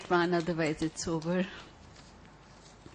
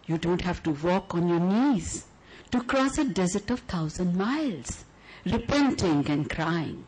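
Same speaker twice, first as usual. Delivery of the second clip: measured, lyrical poem reading; poetry recital. Acted. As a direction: read it like a love letter to the audience.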